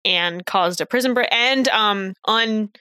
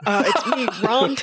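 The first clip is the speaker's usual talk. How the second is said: lightly voiced hesitant character; a slight, fumbled character impression; Ron. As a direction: slip briefly into a character voice. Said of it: "wait, I lost my Ron".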